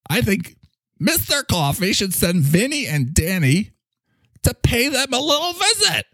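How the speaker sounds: high, hammed-up New York tough-guy accent; Mister Coffee's New York accent, played broad; New York mobster accent. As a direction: lean into a mob New York accent, threatening a visit. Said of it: "A little better on the New York accent".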